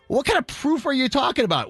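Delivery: retold testy question, pitched high; a little frustrated. Customer to takeout staff over proof of his order, frustrated. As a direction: challenge them with mild, rising exasperation. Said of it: "I'm getting a little frustrated".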